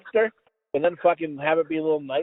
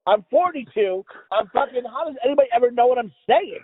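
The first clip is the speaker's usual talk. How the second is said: high, exasperated self-mockery; mock despair; 5 semitones higher than usual. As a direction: plead in comic frustration, pitched up. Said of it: "I'm like".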